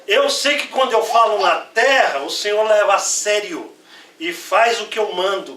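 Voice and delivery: proclaiming prayer. Acted. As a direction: proclaim it so all the crowd hears. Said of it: "pra todo mundo escutar".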